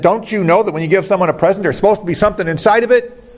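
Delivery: mock angry father. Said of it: "he yelled at her".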